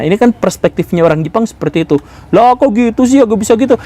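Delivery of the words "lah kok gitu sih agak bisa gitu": high-pitched acted disbelief; baffled protest. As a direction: protest in puzzled, raised pitch. Acted Indonesian objecting once more.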